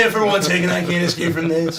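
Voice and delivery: menacing werewolf voice. Pretend. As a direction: scoff like a caged beast. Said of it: "Why did your voice change".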